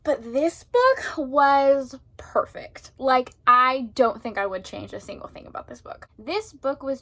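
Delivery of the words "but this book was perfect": whispered. Real, not acted. Post-book awe.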